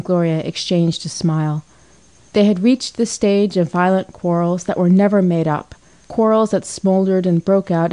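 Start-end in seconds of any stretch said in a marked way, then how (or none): none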